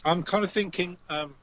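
talking while eating crisps; words round a mouthful of crisps; crunching chips. Real, not acted. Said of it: "Sorry, eating crisps at this point".

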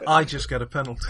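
laughing through the words. Real, not acted. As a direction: say it while laughing. Laughing while saying it.

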